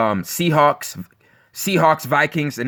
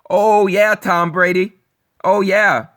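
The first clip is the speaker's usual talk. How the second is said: mock fan cheer; 5 semitones higher, slower than usual. Mocking Brady fans' excitement.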